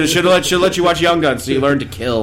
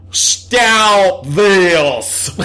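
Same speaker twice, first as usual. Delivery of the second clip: mock Louisiana accent of an English actor, pitched higher and a bit louder; the speaker's bad Louisiana accent; 5 semitones higher, 3 dB louder than usual. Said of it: "That is a perfect impression of it".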